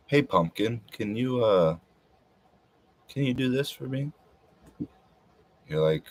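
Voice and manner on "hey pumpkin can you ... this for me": higher, lightly put-on sweet asking voice; sweet pet-name request. Partner asking Pumpkin for a favour, pretend sweet request.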